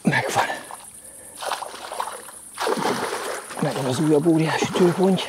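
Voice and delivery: high, elated cry of success; excited triumph. Real, not acted. Angler celebrating another giant carp, excited and high. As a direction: announce the catch with real, high-pitched excitement.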